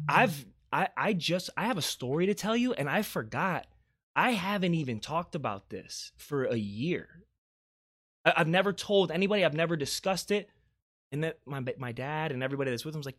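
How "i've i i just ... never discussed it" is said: mildly urgent retelling, higher in bursts, stumbling starts; urgent recollection. Retold or imitated. Mom telling the restaurant crowd a forgotten story, urgent recollection. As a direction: imitate someone suddenly remembering.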